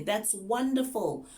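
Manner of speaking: high, loud, drawn-out praise; excited praise. Shown as a demonstration. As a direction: gush slowly at a young student. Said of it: "you need to sound excited".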